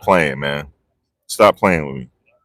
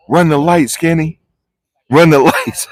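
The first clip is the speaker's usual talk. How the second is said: pretend courtroom yell; 8 semitones higher than usual. Vlogger imagining yelling at the driver in court, laughing shout. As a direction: hype him up, laughing as you go. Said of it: "I just wanted to yell in court".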